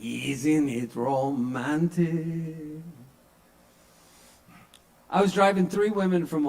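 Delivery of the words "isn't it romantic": dry sarcasm. Real, not acted. Deadpan sarcastic tag.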